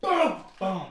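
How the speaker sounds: bang it out at full volume; shouted boom. Pretend. Kicking the door in.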